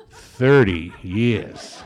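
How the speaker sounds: drawn-out laughing punchline. Real, not acted. Punchline about long sobriety.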